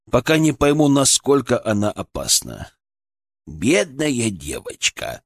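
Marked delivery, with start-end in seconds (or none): 3.5-5.2 scoffing cat. Acted. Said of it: "фыркнул Фырк".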